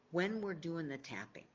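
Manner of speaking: now whisper the same line. Shown as a demonstration. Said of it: "I'll whisper it".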